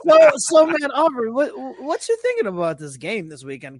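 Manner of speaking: butter him up with a loud, eager hello; mock chummy shout to a rapper; hammed-up buddy greeting. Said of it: "I'd be like".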